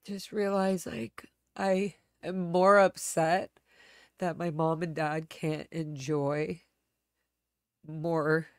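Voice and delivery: choked whisper, slow, barely voiced; tearful whisper. Real, not acted. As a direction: hold back tears and whisper it. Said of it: "why I got so upset".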